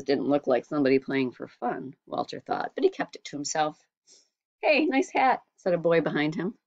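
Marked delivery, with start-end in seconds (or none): 4.6-5.4 high, bright-faced kid voice, mock friendly; a boy greeting sweetly, setting a trap. A narrator's reading.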